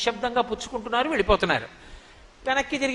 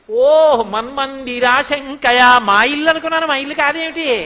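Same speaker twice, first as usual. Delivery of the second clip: Krishna's excuse; 2 semitones higher, 7 dB louder, slower than usual. Acted. Child Krishna's innocent excuse.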